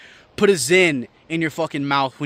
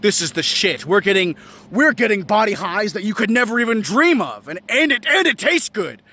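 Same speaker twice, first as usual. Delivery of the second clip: mock cigarillo fan; 5 semitones higher than usual. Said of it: "And they're like".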